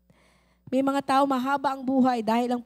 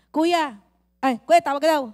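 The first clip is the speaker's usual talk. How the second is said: calling out; 7 dB louder than usual. Acted. Middleman calling brother loudly.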